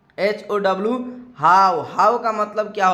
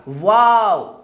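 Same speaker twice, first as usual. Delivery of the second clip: mild delighted wow; 4 dB louder, much slower than usual. Shown as a demonstration. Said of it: "कुछ इस प्रकार से व्यक्त कीजिएगा".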